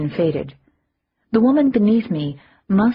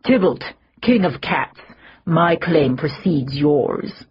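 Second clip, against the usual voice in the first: a mild call from behind, slower; shouted. Acted. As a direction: call out the claim over the crowd. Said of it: "a voice shouted".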